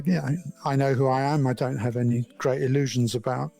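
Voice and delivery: ordinary talk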